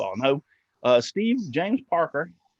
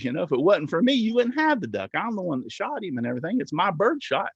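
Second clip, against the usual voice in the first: insistent, higher-pitched storytelling quote; mock indignant arguing; 5 semitones higher than usual. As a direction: pitch swooping up in protest. City slicker argues for his duck.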